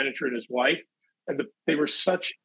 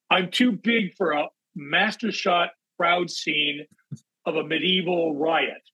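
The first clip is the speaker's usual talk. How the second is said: mock indignant; slower than usual. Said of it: "And I went".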